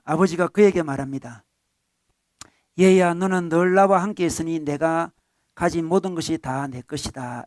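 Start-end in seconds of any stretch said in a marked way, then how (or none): 2.8-7.4 gentle father. Acted. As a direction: speak like a father calming his son. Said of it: "정말 부드러운 이야기죠".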